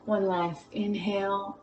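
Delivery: soft whispered breath cue; whispering. Real, not acted. Breath cue in yoga flow.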